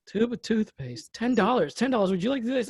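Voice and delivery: a hint of a hustling seller; lightly voiced vendor. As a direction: draw out the item, then pitch the price. Vendor naming an inflated price.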